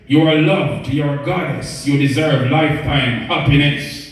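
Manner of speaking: measured, rhythmic poetry recital; spoken-word poem. Acted. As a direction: recite it as uplifting verse to women. Performs an uplifting poem.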